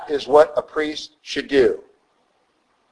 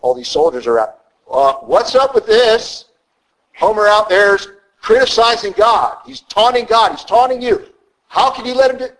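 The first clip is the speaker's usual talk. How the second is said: put-on indignant boy David; 6 semitones higher than usual. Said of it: "And David's like".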